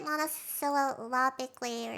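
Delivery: monosyllabically with a stumble in the middle; unsure, muddled go at monosyllabically; fumbled pronunciation. Real, not acted. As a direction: trip over the syllables of monosyllabically. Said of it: "I can't pronounce it".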